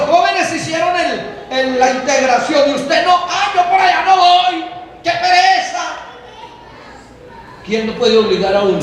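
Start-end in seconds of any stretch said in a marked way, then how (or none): 3.3-5.8 mock lazy whine. Mocking lazy youth.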